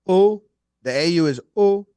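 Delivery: A U said as a French O; French vowel demo. Shown as a demonstration. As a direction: pronounce O as a pure French "oh". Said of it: "how do you pronounce it".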